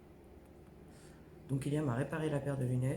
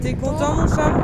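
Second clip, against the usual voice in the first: shouting over wind; 12 semitones higher, 16 dB louder than usual. Real, not acted. Asks her cat at the beach.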